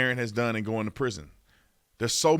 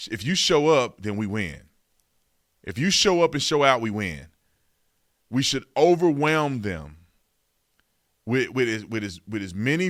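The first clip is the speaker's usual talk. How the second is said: louder punchy rally call; escalating comedy rant; 4 dB louder than usual. Real, not acted. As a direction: fire up the voters. Rallying listeners to vote.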